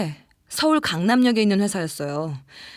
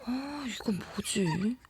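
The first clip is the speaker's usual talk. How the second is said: hushed, near-whispered wondering; puzzled murmur to self; 8 dB quieter than usual. Acted. Woman alone at night hearing odd sounds, hushed puzzlement. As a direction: think aloud very softly, uneasy.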